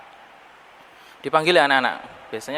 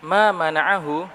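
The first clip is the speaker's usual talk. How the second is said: slow recitation; 3 semitones higher, slower than usual. Acted. Slow Arabic quotation.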